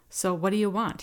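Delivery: put-on drunken slur; slurred. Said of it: "he slurred".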